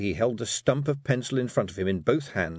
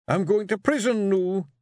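high, louder gruff Scots grumble; growling Feegle; 11 semitones higher, 4 dB louder than usual. A narrator's reading. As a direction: grumble it, disgusted by the letters. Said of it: "he asked".

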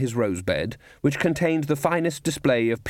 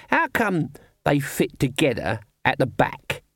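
slightly higher, slower character banter; lightly voiced comic watchmen; 3 semitones higher, slower than usual. A narrator's reading. Nobby asking the sergeant about teeth, in puzzled character voices. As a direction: play two slow-witted guards puzzling it out.

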